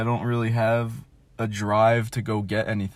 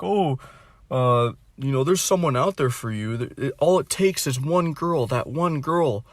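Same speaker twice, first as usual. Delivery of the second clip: higher, sing-song mock reassurance; mock comforting friend; 5 semitones higher, 3 dB louder than usual. Vlogger imitates mom and friend consoling him, mock sweet higher voice. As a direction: parody the friend's pep talk. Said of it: "trying to give me, like, this talk".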